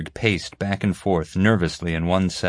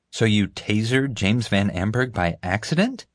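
gasp; 3 semitones higher than usual. Acted. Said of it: "Mom gasped".

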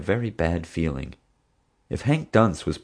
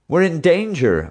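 high urgent yell, louder; 10 semitones higher, 4 dB louder than usual. A narrator's reading. Teddy yelling a warning at Bubba and Marge, high and loud. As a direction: shout the warning over them. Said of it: "I yelled".

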